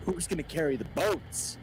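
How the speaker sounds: high, loud Goggins shout; Goggins impression. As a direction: yell it like a drill sergeant. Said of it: "let me ask you a very important question".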